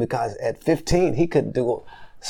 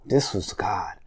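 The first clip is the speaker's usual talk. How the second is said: whispered; 3 semitones lower, 7 dB quieter, much slower than usual. Real, not acted. Struggling to recall year.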